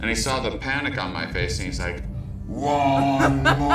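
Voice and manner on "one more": deadpan friend. Retold or imitated. Friend urging another hit.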